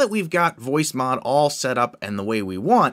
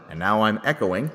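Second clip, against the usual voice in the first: cave echo; 2 semitones lower than usual. Real, not acted. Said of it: "if I go back to my cave sound".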